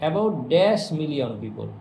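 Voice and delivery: very slow, word-by-word reading; slow dictation. Shown as a demonstration. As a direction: read it out slowly for the class to follow. Teacher reads exercise sentence aloud. (ধীরে ধীরে বাক্য পড়া)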